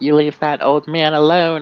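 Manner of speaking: full-throated, very loud, high yell. Playing a character confronting hooligans bothering an old man, yelling. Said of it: "and she's gonna yell".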